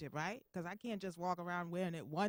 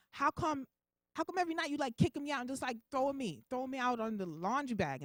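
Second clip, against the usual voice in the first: higher, louder, hammed-up grievance; indignant complaint; 5 semitones higher, 4 dB louder than usual. Butt pad complains about being tossed out at night, indignant. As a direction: play the wronged partner, voice raised.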